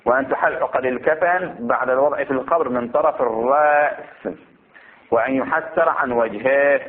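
measured recitation with drawn-out endings; formal text reading. Acted. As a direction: read each ruling out deliberately. Reads the book text aloud.

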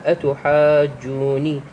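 أتحاجوني slow, "aa" held very long before the doubled j; necessary elongation. Shown as a demonstration. Teacher demonstrating madd lazim, long "aa" in أتحاجوني. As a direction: stretch the alif in أتحاجوني, then lean into the jim. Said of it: "هذا المد يسمونه بالمد اللازم".

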